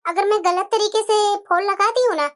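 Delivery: a lightly voiced daughter-in-law giving way; meek daughter-in-law.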